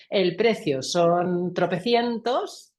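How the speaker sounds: "tropecientos" drawn out slowly and pushed upward; slow price quote with a rising, over-weighted "tropecientos". Shown as a demonstration. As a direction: lean hard on "tropecientos", letting it climb at the end. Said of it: "le he dado ahí tanto peso a ese tropecientos que lo he subido tanto".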